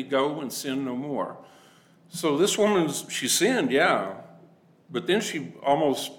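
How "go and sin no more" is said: "Go and sin no more" said slow and soft; gentle. Retold or imitated. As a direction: speak it kindly, like a forgiving teacher. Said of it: "No, he's gentle".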